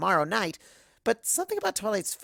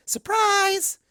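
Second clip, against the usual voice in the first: high, loud party shout; surprise shout; 5 dB louder than usual. Acted. Pinkie greeting her friends at the door, high shout. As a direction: burst out with it as the door opens.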